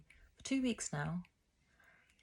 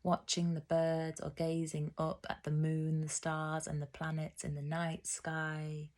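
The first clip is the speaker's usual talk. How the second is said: even, rhythmic poetry reading; poem recital. Acted. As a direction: recite it line by line with measured pauses. Reads own poem aloud.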